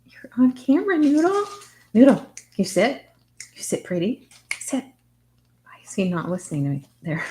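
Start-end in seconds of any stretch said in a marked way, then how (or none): 0.1-4.9 higher, sing-song praise for the dog. Real, not acted. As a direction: coax the dog sweetly. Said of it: "I baby talk with the animals a little bit".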